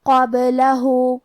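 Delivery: slow chanted قَبْلَهُ with a small echoing bounce on the ب; qalqalah on ba. Shown as a demonstration. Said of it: "با کو ہلاتے ہوئے یہ کلمہ کو پڑھیں گے".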